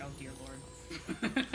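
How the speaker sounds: slow, drawn-out groggy groan of words; slow half-asleep mock dismay. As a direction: drag it out like just waking up. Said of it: "I was just like".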